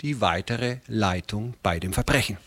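measured, fluent reading of history; deliberate historical narrator; story narration. A narrator's reading. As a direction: read out a dramatic chronicle with clear phrasing. Reads a historical narrative aloud.

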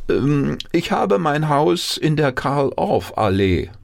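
high-pitched, self-important town mouse; high, bragging mouse voice; boasting. A narrator's reading. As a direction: show off grandly in a high voice. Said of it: "ein bisschen zu prahlen".

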